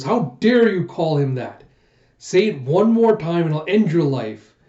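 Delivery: mock-angry rebuke, leaning on the key words; furious. Woman threatens the man who insulted her lord, furious retelling. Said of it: "Shinobu just getting furious".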